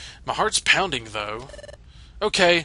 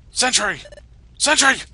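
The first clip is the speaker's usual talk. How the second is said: calling out; 10 semitones higher, 4 dB louder than usual. Acted. Calling out to Sentry Diglett.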